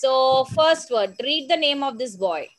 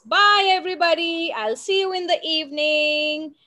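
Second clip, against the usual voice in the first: put-on higher, quick and cheerful boy's farewell; Mag's cheerful goodbye; 4 semitones higher than usual. Boy Mag waving bye to everybody, cheerful. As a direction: call out a happy goodbye as you leave. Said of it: "And then Mag says".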